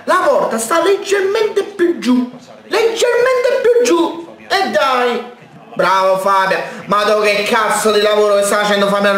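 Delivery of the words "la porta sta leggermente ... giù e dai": exasperated scolding. Real, not acted. Fan scolds players for shooting high.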